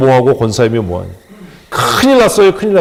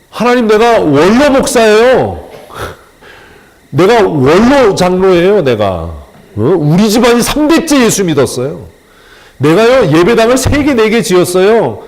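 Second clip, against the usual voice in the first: pleading believer; 4 semitones higher than usual. Pretend. Believer pleads credentials before God.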